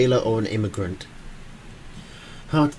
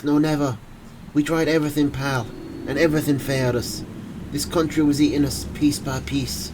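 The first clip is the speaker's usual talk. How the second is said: put-on Irish accent. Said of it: "in a thick Irish accent".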